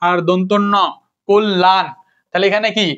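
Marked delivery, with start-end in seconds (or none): 1.3-1.9 কল্যাণ as "kol-lan", two clear beats; doubled l. Shown as a demonstration. Teacher putting the syllables together, কল্যাণ as "kol-lan". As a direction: hold the l across both syllables of কল্যাণ. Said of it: "তাহলে কোল".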